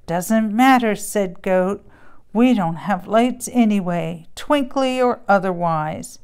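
lively bedtime storybook reading with voices; story narration. A narrator's reading. Parent reading a Christmas story to a child, animated storybook voice. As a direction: read it like a picture book to a child. Reads a farm tale aloud.

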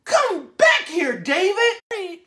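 mom yelling. Acted. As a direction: shout it like a mother calling her runaway kid. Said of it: "His mom said".

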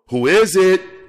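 high, loud woman calling through the door; high woman's voice. A narrator's reading. Woman answering the knock, high and loud. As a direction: pitch it up as a wary woman behind the door. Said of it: "came the inquiring voice of a woman".

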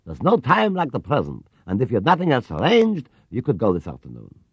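a hint of a gentle old gentleman; lightly voiced kindly shopkeeper. Mr Gruber inviting Paddington along, kindly. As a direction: kind and unhurried, offering a treat.

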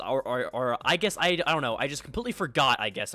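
stumbling over words; tripping on the words, repeating; stuttering. Real, not acted. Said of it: "I'm stuttering".

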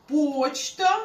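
"почта" said slowly, the Polish way; drawn-out Polish "почта"; Polish pronunciation. Shown as a demonstration. Teacher sets the Polish word against the Ukrainian one, slow Polish pronunciation. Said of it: "наприклад".

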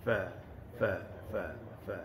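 teacher's demo of fa; correct fa. Shown as a demonstration. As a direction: repeat fa gently, teeth on lip.

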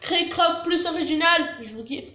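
eating a snack while speaking; talking while chewing. Real, not acted. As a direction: mouth partly full of chip. Seen 2: Chip to mouth at 0.4, chewing-like mouth movements through later frames.

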